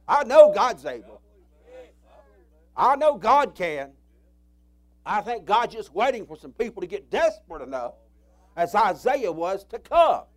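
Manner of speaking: full-force preaching; fervent preaching. Real, not acted. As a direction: lift the faith with each line. Preacher rising in fervour.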